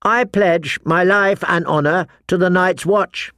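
oath recitation. A narrator's reading. Mathar joining the boys' chorus, reciting. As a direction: join in reciting the vow. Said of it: "He joined the chorus".

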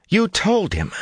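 high, hissed fury at Lan; furious breath. A narrator's reading. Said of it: "Nynaeve breathed furiously at Lan".

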